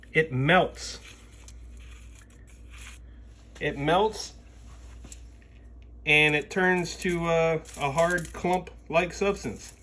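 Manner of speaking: speaking through a face covering; muffled. Real, not acted. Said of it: "Sorry if I'm muffled".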